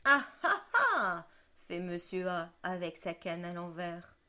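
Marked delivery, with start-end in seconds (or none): 0.0-1.3 put-on old man voice. Monsieur A threatens with his cane.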